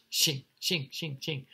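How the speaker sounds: "shing, shing, shing, shing" in quick hissing bursts; repeated sh sound. Shown as a demonstration. Teacher demonstrates the rain sound, repeated "shing" with hushing sh. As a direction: splash out each "shing" with a strong sh. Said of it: "So that sh".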